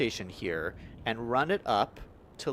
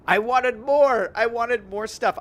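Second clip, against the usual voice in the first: greedy excitement; 9 semitones higher, 9 dB louder than usual. Pretend. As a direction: ham up wanting more. Gleeful craving for more transit.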